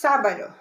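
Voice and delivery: sábado accented on the first syllable; first-syllable stress. Shown as a demonstration. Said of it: "the stress is on the first syllable".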